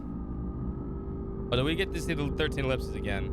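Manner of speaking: slow, drawn-out alien voice; Conehead voice. Pretend. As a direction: stretch every word like a Conehead. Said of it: "the Conehead voice again".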